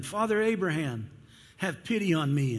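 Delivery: the rich man cries up to Abraham, pleading loudly; desperate plea. Acted. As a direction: beg Abraham from the flames. Rich man begs from the fire.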